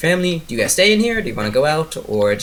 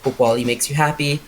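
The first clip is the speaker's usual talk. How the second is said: higher-pitched kindly aunt voice; lightly acted congratulation; welcoming; 6 semitones higher than usual. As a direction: welcome a newcomer into the family. Voicing Melba welcoming the new wife.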